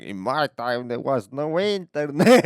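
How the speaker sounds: loud, high, drawn-out elder voice; hammed-up old-timer. Elder telling kids about life before internet, hammed-up old-timer. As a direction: proclaim it like an indignant old-timer.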